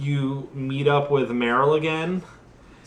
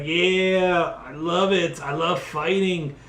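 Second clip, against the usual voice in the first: high, strange voice rising into a frenzy; mock crazed ninja, building up; unhinged cyborg ninja; 5 semitones higher than usual. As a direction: play a ninja about to snap. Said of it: "totally flips out".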